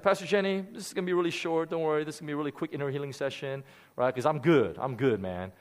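breezy, brushing it off; cocky confidence. Retold or imitated. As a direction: reassure her there's nothing to fix. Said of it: "I was so cocky".

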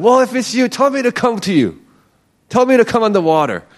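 high-pitched, impulsive outburst; blurting out. Retold or imitated. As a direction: blurt it out as an impulsive disciple, without thinking. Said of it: "blurting it out".

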